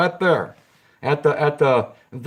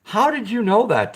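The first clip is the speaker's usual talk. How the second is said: surprised; 6 semitones higher than usual. Real, not acted. Repeats question to chat viewer.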